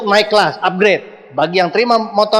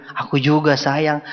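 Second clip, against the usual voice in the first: soft romantic reply; 4 semitones lower, 4 dB quieter, slower than usual. Retold or imitated. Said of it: "Koli bilang".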